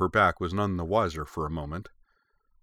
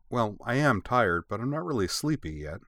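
"am" leaned on, then conceding; self-correcting; 4 semitones higher than usual. A narrator's reading. Daughter correcting herself to mother, stressing "am". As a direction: stress "am" while correcting oneself. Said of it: "Yui corrected herself".

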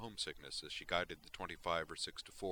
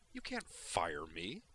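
eye-rolling dismissal; much slower than usual. Acted. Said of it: "rolling her eyes".

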